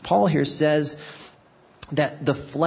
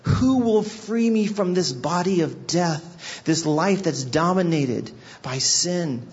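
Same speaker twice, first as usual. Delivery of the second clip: lament; 5 semitones higher than usual. Retold or imitated. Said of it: "He says".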